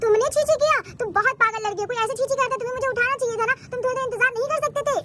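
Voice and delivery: scolding yell. Acted. Mother scolds child over the mess, yelling. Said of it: "तुम क्यों इतना चिल्ला रही हो".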